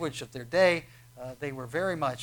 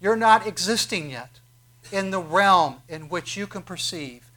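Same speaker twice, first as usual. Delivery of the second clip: louder, slow, pressing; insistent rebuke; 2 semitones higher, 6 dB louder than usual. Acted. Jesus telling Nicodemus he cannot perceive, insistent. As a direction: keep pressing the point, slowing down.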